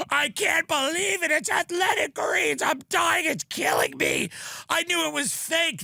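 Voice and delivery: hammed-up high dying voice; dying friend. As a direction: play the friend choking on the greens, voice way up. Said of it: "He was going".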